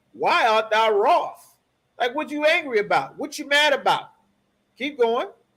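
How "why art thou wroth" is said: genuine questioning tone rising, ending on wroth. Coaching a reader through a Bible verse, showing it read as a question. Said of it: "You want to read it like a question".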